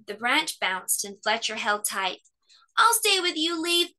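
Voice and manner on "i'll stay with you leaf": high, breathless promise; gasped. A narrator's reading. Cub clings to the branch and gasps to the leaf. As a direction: gasp while holding on. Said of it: "he gasped".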